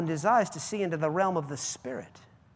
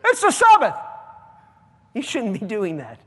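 mock the scold's complaint; mock religious nut; 6 dB louder than usual. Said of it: "this little religious nut".

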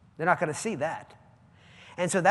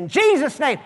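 commanding rebuke; 6 semitones higher, 7 dB louder than usual. Retold or imitated. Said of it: "so he said".

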